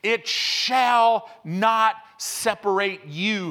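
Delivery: preacher thundering the promise; slow triumphant proclamation. Real, not acted. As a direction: proclaim it like a victory. Same words, now preached.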